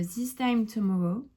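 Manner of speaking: slow English title in a French accent. Real, not acted. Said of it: "Mon accent anglais, on n'en parle pas". (accent français en anglais)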